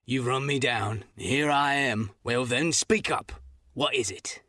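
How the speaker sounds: lightly voiced weary captain; resigned old sailor facing his past; cornered captain, understated; gruff captain. Captain confronts him.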